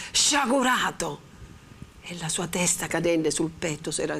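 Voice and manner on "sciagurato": higher, slow ringing call; resonant cry. A narrator's reading. The friar thunders at Renzo again, ringing. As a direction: repeat it with full sonority. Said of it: "con una voce che aveva ripreso tutta l'antica pienezza e sonorità".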